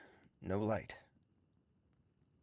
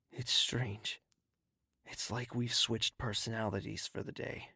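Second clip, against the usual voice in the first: inner monologue. A narrator's reading.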